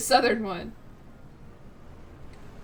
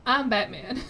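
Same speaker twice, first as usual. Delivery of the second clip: put-on short Southern-accented superhero catchphrase; Southern-accented Batman bit. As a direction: announce yourself with a Southern accent. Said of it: "here's another one".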